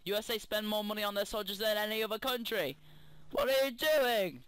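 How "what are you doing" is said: evil queen. Acted. Raging villain monologue at soldiers.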